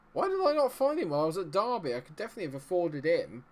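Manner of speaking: high, loud exclamation of disbelief; incredulous. Real, not acted. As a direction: cry out at what you missed. Exclaiming over the player he missed.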